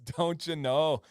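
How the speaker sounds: Minnesota accent, slow, stretching "know". Shown as a demonstration. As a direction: lean into the Minnesota drawl. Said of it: "Garrett says, "Minnesota".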